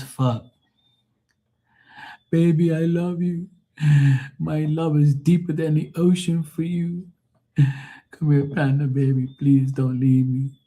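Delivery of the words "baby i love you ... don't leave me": put-on higher-pitched Irish accent, begging his woman; a clingy Irish lover begging her to stay, in an Irish accent; Irish man pleading. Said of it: "no more Irish, acting like some Irish jackass".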